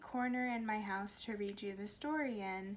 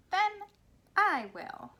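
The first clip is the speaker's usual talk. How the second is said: determined hen; 10 semitones higher, 10 dB louder, slower than usual. Acted. Hen answers the lazy animals.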